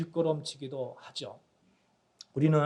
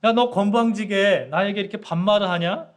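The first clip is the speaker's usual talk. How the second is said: a touch of indignant scolding, louder; mock anger; 4 semitones higher, 7 dB louder than usual. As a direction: play the offended number five, mildly hammed. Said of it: "너무너무 화가 나가지고". (화가 난 오가 반말하는 사점오를 꾸짖듯, 조금 큰 소리로)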